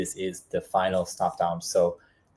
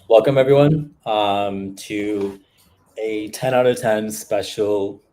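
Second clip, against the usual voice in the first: energetic stream intro; 2 semitones higher, 5 dB louder, slower than usual. Real, not acted. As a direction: greet the crowd like a host kicking off a show. Live stream opening greeting.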